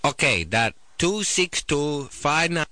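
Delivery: slow, misheard number readback; mock Thai order taker. Thai food place reads back the number, slowly and wrongly. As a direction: drag the digits out, a bit off. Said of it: "they're like".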